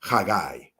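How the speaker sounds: "Chagai" with a throaty start and eye ending; Hebrew pronunciation. Shown as a demonstration. Teacher demonstrating the joined vowel, "Chagai" ending like guy. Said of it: "get the I sound".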